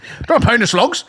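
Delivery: high, bright hawker call; mock market vendor selling slugs by the pound. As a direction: hawk slugs like a market seller.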